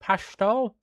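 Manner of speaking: hesitant second go at "Pashto" in an Irish voice; trying to say Pashto. Shown as a demonstration. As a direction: give "Pashto" a second careful go with an upward lilt. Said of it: "I can't say it 'cause my accent".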